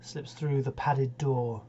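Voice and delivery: grave, steady ballad reading; poem recitation. Acted. Host reading Wilde's ballad aloud, solemn recital.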